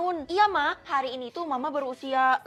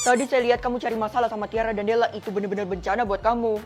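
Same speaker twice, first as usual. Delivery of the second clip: lower, grave teacher warning; 4 semitones lower than usual. Acted. Teacher gravely warns Feli about the bullies, lower voice.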